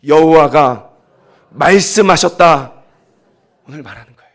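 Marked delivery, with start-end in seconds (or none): 0.1-2.8 loud, slow call for the congregation to echo; model line to repeat. Shown as a demonstration. Preacher leading the congregation's repetition, loud and slow. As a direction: proclaim it for them to repeat. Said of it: "따라합시다".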